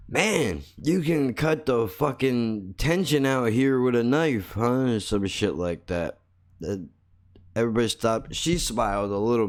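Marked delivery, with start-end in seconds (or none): 0.1-4.9 raised-pitch mock announcement. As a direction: toss a joke into the awkward silence, pitched up. Wisecrack announced into tense silence.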